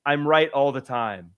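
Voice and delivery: a mock shout of Goldblum's line; quoted shout. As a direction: call it out like a proud boast. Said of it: "he says".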